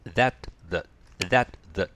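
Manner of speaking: "that" full with an open vowel, then reduced to a short "thət"; strong versus weak that. Shown as a demonstration. Teacher contrasting pronoun and conjunction, full then reduced vowel. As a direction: alternate stressed "that" and clipped weak "the". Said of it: "発音が変わります".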